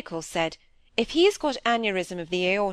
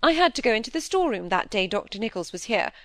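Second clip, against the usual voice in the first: higher, defensive self-justifying flow; plucking up courage; 6 semitones higher, 4 dB louder than usual. A narrator's reading. Wife defends her eavesdropping to husband, plucking up courage. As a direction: face up and justify yourself, pitched higher. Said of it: "gave her courage, she turned and faced him".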